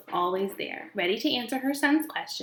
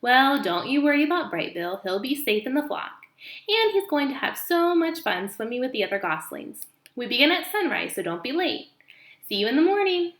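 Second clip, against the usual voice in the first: lightly higher chirpy goose voice; cheery old goose; 4 semitones higher than usual. Acted. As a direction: reassure like a kindly old goose. Old goose reassures Roz.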